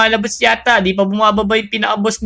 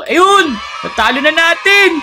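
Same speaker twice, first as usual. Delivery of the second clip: victory shout; 7 semitones higher, much slower than usual. Real, not acted. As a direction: shout the win. Boss defeated.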